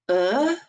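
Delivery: "E" said as a soft "uh"; French letter "E", like "euh". Shown as a demonstration. Teacher explaining the French letter, soft "uh" for "E". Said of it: "kind of like a soft".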